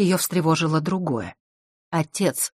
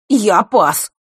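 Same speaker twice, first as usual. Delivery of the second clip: higher, loud curt refusal; snapping back; 5 semitones higher, 8 dB louder than usual. A narrator's reading. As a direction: bite off the words. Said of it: "огрызнулся Норт".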